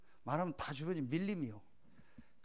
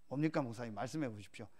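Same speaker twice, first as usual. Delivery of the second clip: lower, hushed attentive reply; soft polite prompting; 6 semitones lower, 5 dB quieter than usual. Retold or imitated. Evangelist answering the pastor's confided worry, soft and low. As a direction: gently invite him to go on, quietly. Voices the other man's gentle reply.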